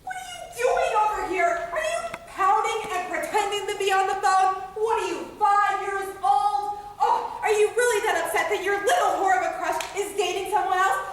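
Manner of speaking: a scolding rant, laughing bitterly at times; acted anger. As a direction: tear into each of them in turn. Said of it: "Did you feel the anger?".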